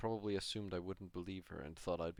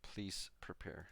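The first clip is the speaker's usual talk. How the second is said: soft, slow whisper; 7 dB quieter, much slower than usual. Acted. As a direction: whisper it slowly. Translating the girl's whispered plea.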